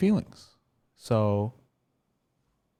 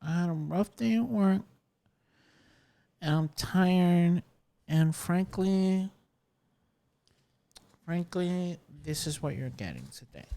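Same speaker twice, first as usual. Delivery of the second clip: tired, quiet low-energy opener; soft, worn-out podcast intro; 6 dB quieter than usual. Real, not acted. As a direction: drag through it like after a rough day. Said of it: "I'm starting the podcast low energy".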